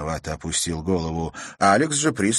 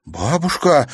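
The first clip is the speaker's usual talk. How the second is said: higher, louder astonished cry; shocked gasp; 8 semitones higher, 5 dB louder, slower than usual. Acted. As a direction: gasp out in disbelief. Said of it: "изумлённо выдохнула Катерина".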